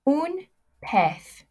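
Un pez. with pez ending in a th sound, said high; Spanish pronunciation. Shown as a demonstration. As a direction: pez said as peth, lisped z. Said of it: "Zs are pronounced like a T H sound".

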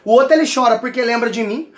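ordinary delivery

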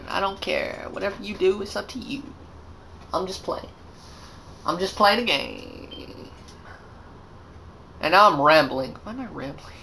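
mumbling aside. Real, not acted. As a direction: drop to a quiet mumble. Rambling aside, much softer.

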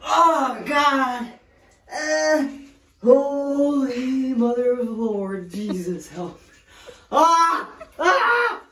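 high gasping yelps from cold; in ice cold water. Real, not acted. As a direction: gasp and cry out at the freezing water. Entering ice bath.

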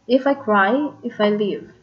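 "If I cry" rising onto a stressed "cry"; weight on "cry", then a falling "leave"; stress on final word. Shown as a demonstration. Teacher repeating the example, stress on "cry" and "leave". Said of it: "the stress there is cry and leave".

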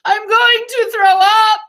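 put-on high, slow, trembling child's plea; a sick little girl's shaky call for help; high and slow, voice wobbling with dread; quavering. A narrator's reading. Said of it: "quavered Ramona".

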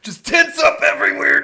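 high, loud through laughter; laughing. Real, not acted. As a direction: crack up while talking. Laughing after flexing.

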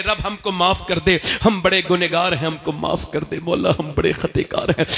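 pleading prayer. Acted. Leading a plea of repentance.

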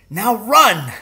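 high, loud call to run; urgent shout. Acted. Father telling son to flee, sudden shout. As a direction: send the boy off fast. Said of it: "my father said".

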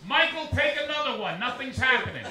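unimpressed wife urging him on; lightly voiced bored bride; Catherine Zeta-Jones. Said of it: "this is Catherine Zeta-Jones on her honeymoon".

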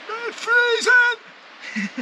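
high, very slow ironic drawl; sarcastic. Pretend. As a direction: stretch it out, ironic. Sarcastic understatement after swim.

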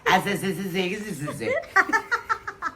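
hissing, stuttered s-s-s laughter; laughing. Real, not acted. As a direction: crack up over a tangled word. Couple laughing at tongue-twisted word. (หัวเราะจนลิ้นพัน)

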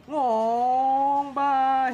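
high playful goodbye. Pretend. Playful sendoff while driving off.

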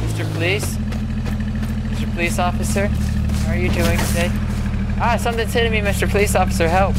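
panicked calls for help; being chased. Real, not acted. Being attacked, calling police for help.

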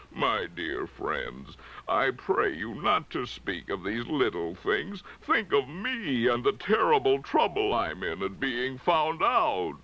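lightly voiced meek little man, pleading; meek exposed humbug.

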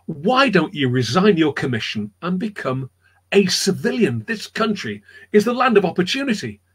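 lightly voiced wife, lifting in pitch; enthusiastic wife. Wife urging John to resign his commission, enthusiastic. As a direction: urge him on as a keen wife. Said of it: "His wife loved New England, and she said".

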